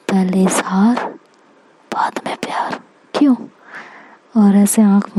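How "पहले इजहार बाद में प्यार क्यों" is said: hushed, playful whisper that fades away; teasing whisper. Acted. Shruti teasing Aksh as she leaves, in a playful whisper. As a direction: taunt him softly with a wink.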